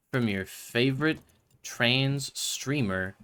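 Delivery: a slow, teasing channel plug; drawn-out plug. Shown as a demonstration. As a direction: stretch "trans streamer" out slowly. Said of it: "do a funny plug again".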